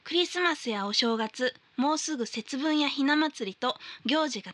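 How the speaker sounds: letter reading. Acted. Host reading listener's New Year mail on air, formal read.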